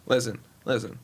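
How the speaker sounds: lightly voiced blustering team owner; a hint of a folksy, insistent owner; Jerry Jones impression. Team owner lecturing the commissioner at a meeting, lightly put-on owner voice. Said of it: "the Jerry Jones wasn't bad".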